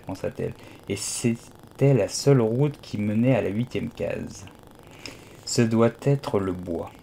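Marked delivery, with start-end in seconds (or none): 5.5-6.9 pensive. Acted. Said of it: "se dit-elle pensivement".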